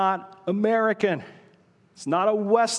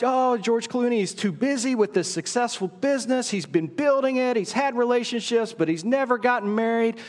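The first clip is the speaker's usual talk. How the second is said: higher, hammed-up movie-trailer voice teasing the crowd; playful mock rom-com narration, a bit higher; mock romance trailer; 5 semitones higher than usual. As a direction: sell it like a cheesy Hollywood love story pitch. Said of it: "the story would go like".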